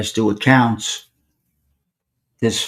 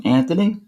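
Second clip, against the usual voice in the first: Anthony with a raised, questioning pitch; questioning name check; 5 semitones higher than usual. Retold or imitated. Asking a stranger if he is Anthony, rising question. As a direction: ask ANTHONY with the tune rising. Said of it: "Just like that".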